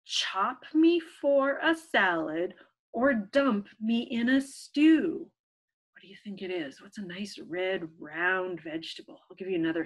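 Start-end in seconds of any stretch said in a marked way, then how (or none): 0.0-5.3 put-on slow, even reading to children; riddle reading. Teacher reading a riddle to children, slow and even. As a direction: read the riddle slowly for little ones.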